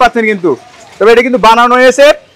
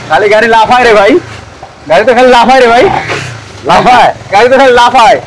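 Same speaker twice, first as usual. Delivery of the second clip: on a bumpy road. Real, not acted. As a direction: voice jolted by a bouncing bike. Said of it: "আমি তো লাফাচ্ছি না, গাড়ি লাফাচ্ছে রে ভাই".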